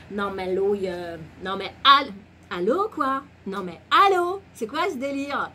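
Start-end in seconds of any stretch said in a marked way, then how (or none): 1.6-5.5 loud, high, exaggerated disbelief; hammed-up indignant exclamation; mock outrage. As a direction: act scandalised, pitch jumping up. Acting mock outrage at silly advice.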